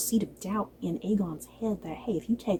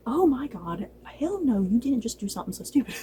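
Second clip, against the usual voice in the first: shocked disbelief; 3 semitones higher than usual. Retold or imitated. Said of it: "everyone is like".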